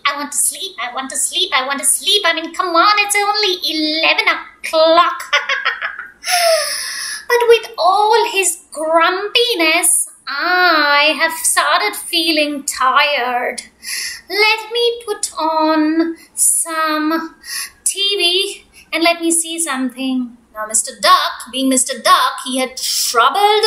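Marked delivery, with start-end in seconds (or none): 0.1-2.2 mocking the grumpy bear. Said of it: "he's so grumpy". 2.3-20.4 chirpy duck. Acted. Duck alone at home.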